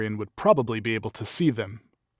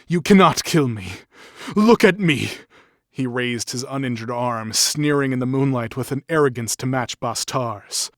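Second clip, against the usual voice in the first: arrogant shout; 2 semitones higher, 8 dB louder than usual. Acted. Wounded captive taunting the boss, sneering defiant shout. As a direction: hurl the taunt at him with sneering pride.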